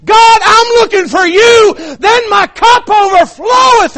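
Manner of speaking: high, impassioned pulpit shout; full-force preaching. Real, not acted. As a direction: build to a shouted climax from the pulpit.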